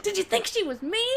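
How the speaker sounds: high amused question; teasing laugh. Retold or imitated. Charlotte teasing Anne about the mix-up, high amused question. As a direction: laugh through the tease. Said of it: "She's like".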